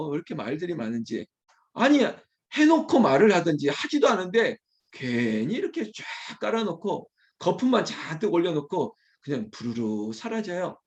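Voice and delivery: ordinary talk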